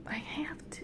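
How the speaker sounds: very soft, high little reply; hushed reluctance. Retold or imitated. Lady gnome answering the dreamer, meek and hushed.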